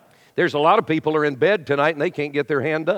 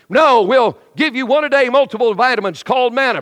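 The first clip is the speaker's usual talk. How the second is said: louder, higher booming God voice; God answering; 4 semitones higher, 4 dB louder than usual. Retold or imitated. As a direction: play God patiently laying down the rules. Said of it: "And God says".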